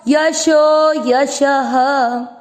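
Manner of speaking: यशो यशः chanted slowly, the ः breathed as ह; slow teaching chant; slow recitation. Shown as a demonstration. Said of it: "शब्द क्या पढ़ा गया?".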